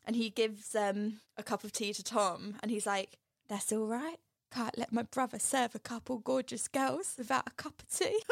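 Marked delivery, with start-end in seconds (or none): 3.5-8.2 lightly put-on cockney lad. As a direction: imitate a chatty cockney boy. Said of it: "He was so cockney".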